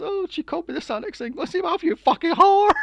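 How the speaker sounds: high, loud, hammed-up outrage; mock furious rant. Mother retelling the prank caller's insults, high and loud mock fury. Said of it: "She goes".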